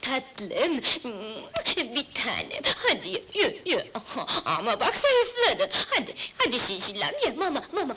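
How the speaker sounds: put-on doting baby talk with little laughs; cooing to a pet. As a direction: coax a spoiled pet to eat. Evcil hayvanını besliyor, seviyor. (bebek sever gibi, cilveli)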